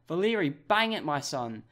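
egging the striker on; urging a shot. Real, not acted. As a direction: fan yelling at the screen.

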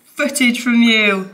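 high whoop then slow call-out; excited cheer. Real, not acted. Wife cheering her husband's deer photo, high excited whoop. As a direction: cheer him on. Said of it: "That's actually really exciting".

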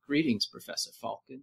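clipped mock British accent, quiet; a bad British accent impression. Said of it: "that's my terrible British accent".

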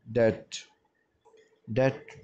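डेट said "det", no b sound; डेट with the b left silent. Shown as a demonstration. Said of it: "बी को नहीं पढ़ेंगे". (डेट में बी silent, "डेट")

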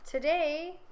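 grand proclamation. A narrator's reading. King's proclamation.

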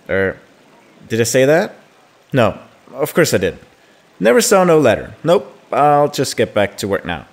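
lightly acted friend backtracking after a slip; flustered chatty friend. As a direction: let it out, then hastily cover up. Reads Imoen's slip about letter.

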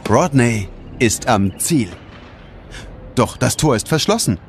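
ordinary delivery

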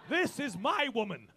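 slow, hammed-up possessive husband; mock macho, slow. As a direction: lay claim to her like a caveman. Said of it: "Possessive, Tom".

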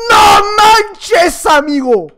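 real gamer outburst after a kill; excited shouting. Real, not acted. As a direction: shout it in amazed triumph. Excited kill during the game.

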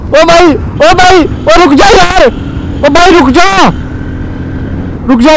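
high, slow drawn-out calls to stop; calling out. Real, not acted. Vlogger yells at the rider to stop, high and drawn out. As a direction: stretch each call so it carries down the road.

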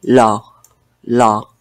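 law with a long stretched O; prolonged law. Shown as a demonstration. Teacher modelling law for students, stretched. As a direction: draw out the vowel in law. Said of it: "como prolongando la".

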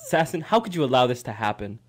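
lightly voiced disapproving scolding; a hint of a stern father; Zane. Host voicing the producer's dirty look at Sasson, mildly scolding. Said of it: "Zane's giving you the dirtiest look".

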